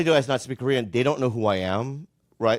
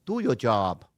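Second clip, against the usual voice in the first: put-on failed Boston accent; 3 semitones lower, slower than usual. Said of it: "Why was that Chinese?".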